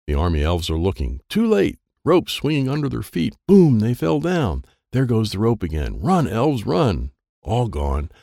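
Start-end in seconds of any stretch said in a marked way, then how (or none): 3.5-4.6 triumphant. A narrator's reading. Elves trip.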